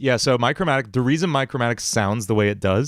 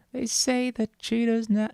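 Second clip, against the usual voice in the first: villain voice; 12 semitones higher, 4 dB quieter, slower than usual. Acted. Same villain line restarted.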